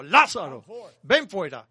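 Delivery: calling with a loud voice. Shown as a demonstration. Jesus at the tomb calls the dead man out, loud command. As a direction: call Lázaro out with a great voice. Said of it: "él habló a gran voz".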